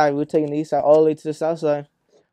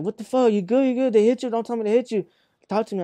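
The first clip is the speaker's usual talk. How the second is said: high, urgent mock-worried questions; imitating alarmed mother; 7 semitones higher, 3 dB louder than usual. Mother on the phone after the crash, high urgent alarm, retold. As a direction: replay a frantic parent, pitch raised throughout.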